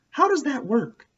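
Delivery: high, bewildered asking; puzzled question. Acted. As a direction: call after her, baffled.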